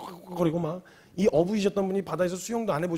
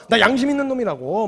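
mock proud insistence, pitched up and louder; stubborn insistence; 4 semitones higher, 5 dB louder than usual. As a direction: dig in your heels proudly. Peter insists he has conscience.

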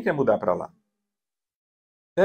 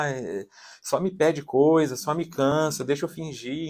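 weary complaint; slower than usual. Acted. Mother privately complaining about her needy child, mildly weary. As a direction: imitate a mother tired of requests.

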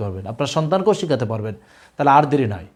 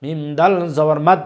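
1 slow spelling drill; slower than usual. Shown as a demonstration. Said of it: "লক্ষ্য করুন".

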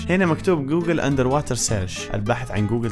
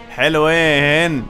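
very slow, savoring the word حلوين; drawn-out admiring; 3 semitones higher, 5 dB louder, much slower than usual. Real, not acted. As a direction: stretch حلوين out long and loud. Admiring the view.

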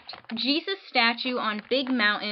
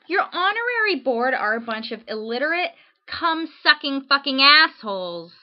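mock rant; 3 semitones higher, 4 dB louder than usual. Letter body ranted.

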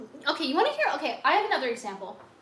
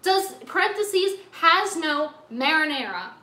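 slow mock label reading; 3 semitones higher, 4 dB louder, slower than usual. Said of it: "It needs to say".

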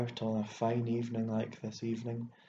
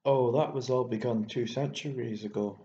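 crying back; 4 dB louder than usual. Acted. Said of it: "I cried back at him".

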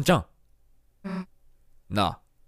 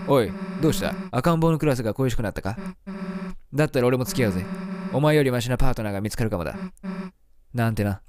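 put-on tough girl voice; 5 semitones lower, faster than usual. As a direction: voice Susie low and sullen. Reads bully's lines. (低めの不良少女の声)

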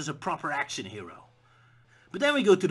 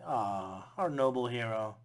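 lower, softer sarcastic coo; mock tender aw; 4 semitones lower, 3 dB quieter, slower than usual. Audience mocking Indy, lower sarcastic aw. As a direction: coo over him sarcastically.

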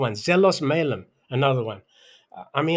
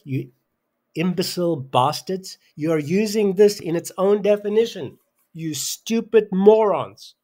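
furious rant; 4 semitones higher, 5 dB louder than usual. Real, not acted. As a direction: berate the class, hitting each insult hard. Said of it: "I'm so worked up".

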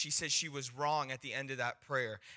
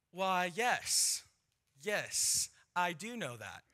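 higher-pitched, drawn-out yes of a stranger; imitated eager agreement; 4 semitones higher, slower than usual. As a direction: act out a man agreeing emphatically. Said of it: "he goes like this".

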